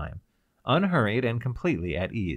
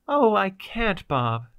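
a touch of mock sobbing, much higher; 10 semitones higher, 6 dB louder, slower than usual. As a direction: plead through half-acted tears. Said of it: "she sobbed".

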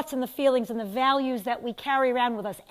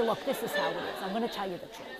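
put-on New York accent; 5 semitones lower, 8 dB quieter, faster than usual. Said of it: "I go right into my New York accent".

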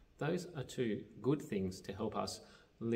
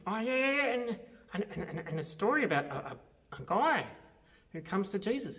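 higher, eager puppet voice tumbling over words; excitable puppet Grover; 8 semitones higher, 5 dB louder than usual. Acted. Puppet Grover eagerly tells the leader about the story. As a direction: play Grover, keen and stumbling.

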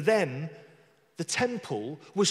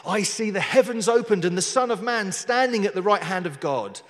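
Stephen proclaiming his vision; 3 semitones higher, 5 dB louder than usual. Acted. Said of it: "he said".

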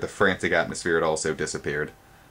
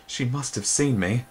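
frightened groan; 6 semitones higher than usual. Acted. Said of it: "he groaned".

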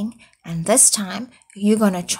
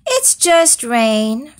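slow, louder weary groan; 3 semitones higher, 5 dB louder, slower than usual. Acted. Horse groaning at the fretful goat, slow and weary. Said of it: "groaned Horse".

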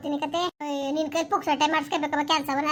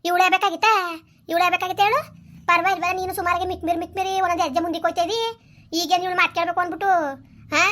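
raised voice, accusing and sarcastic; loud angry rebuke; 5 dB louder than usual. Acted. The mother lashing out at her son for bringing the rival, loud and angry. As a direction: lash out at him for bringing her.

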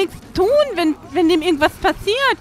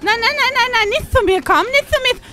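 high, loud frantic nein; rising alarm at the creature; panicked no; 6 semitones higher, 4 dB louder, faster than usual. Real, not acted. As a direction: fend it off in a panic. Player panics at creature approaching.

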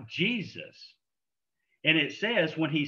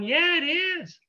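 emphatic yes; 13 semitones higher, 4 dB louder, slower than usual. Retold or imitated. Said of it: "And I'm going".

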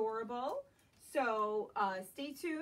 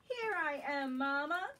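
put-on Baby Bear; 3 semitones higher than usual. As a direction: pop out cheerfully from hiding. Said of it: "said Baby Bear".

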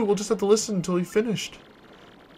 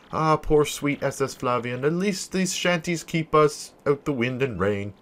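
a lower, solemn journal voice; diary reading; 3 semitones lower than usual. Acted. Merchant writing his castaway journal, solemn and lower. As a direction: read it like a shipwreck log. Flavio's castaway log read.

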